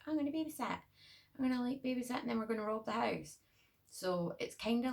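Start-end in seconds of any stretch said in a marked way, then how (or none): 0.1-3.4 put-on high, bright-eyed girlish voice; a lightly mocking teen-girl voice; quoting the girl. Vlogger mimics the movie's babysitter, high and mocking. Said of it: "the girl's like".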